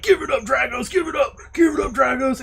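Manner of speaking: mock shouted taunt. Quoting the arcade player to friends, mock yelling. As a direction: imitate a film character calling out. Mimicking movie character at arcade game.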